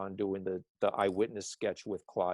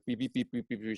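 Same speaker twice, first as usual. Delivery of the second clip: imitated phone beeps; faster than usual. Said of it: "she's like".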